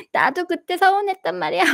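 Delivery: high, childlike mock complaint from the younger child; 엄마가 흉내 낸 작은아이 목소리. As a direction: lightly play the sulky little kid. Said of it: "둘째도 갑자기 껴 가지고". (작은아이가 서운하다고 조르듯 높은 아이 목소리로)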